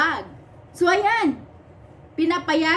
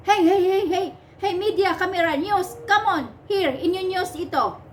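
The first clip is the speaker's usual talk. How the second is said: mock officer calling media; 5 semitones higher than usual. Mocking the officers who call the media over, hammed-up. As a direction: wave the cameras over, mocking.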